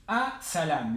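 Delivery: 'A-salam' with no L before the s; silent L. Shown as a demonstration. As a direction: drop the article's L in 'A-salam'. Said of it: "la L no se pronuncia".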